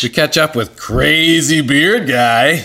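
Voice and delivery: lively teaser read; show intro. Acted. Two hosts tease the coming show, show intro. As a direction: punch up the coming attractions.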